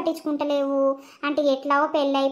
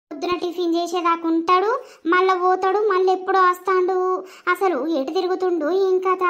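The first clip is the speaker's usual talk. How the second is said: higher, fuming grumble about her husband; annoyed complaint; 4 semitones higher than usual. Acted. Pregnant wife fuming alone about her wandering husband. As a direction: vent the irritation aloud. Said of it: "ఎందుకు కోపంగా ఉన్నావు?".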